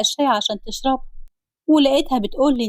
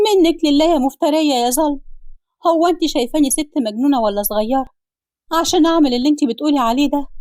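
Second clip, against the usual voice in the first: angry accusation; 4 semitones higher than usual. Acted. Mother-in-law accuses Anhar before Ali.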